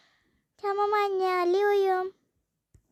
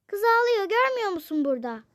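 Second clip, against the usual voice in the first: angry; 3 semitones higher, 5 dB louder, faster than usual. Acted. Mother argues.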